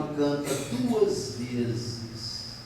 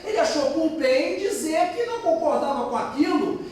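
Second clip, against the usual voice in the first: ordinary talk, nothing marked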